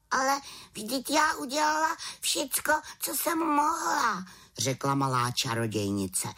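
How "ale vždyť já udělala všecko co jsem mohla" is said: high, protesting little witch; defensive witch. Acted. Witch defends herself to raven, high protest. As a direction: plead you did everything.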